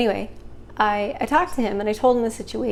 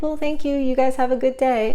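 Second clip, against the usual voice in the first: forced politeness; 4 semitones higher, 4 dB louder than usual. Retold or imitated. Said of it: "raging mad, but I was still like".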